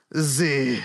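cartoonish French podcast host; bad French accent. Shown as a demonstration. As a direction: welcome listeners in a deliberately bad French accent. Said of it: "it's gonna be a French accent".

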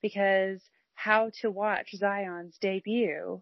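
chirpy customer service voice; fake-excited receptionist voice. Shown as a demonstration. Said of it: "This is my customer service voice".

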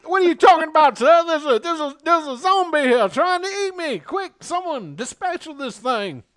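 high, loud frantic character voice; panicked character. Acted. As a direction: beg for help in a panic. Character panics about a zombie.

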